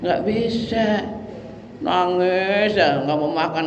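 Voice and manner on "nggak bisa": drawn-out refusal. Acted.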